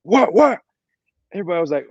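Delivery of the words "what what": echo imitation. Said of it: "when you heard the echo".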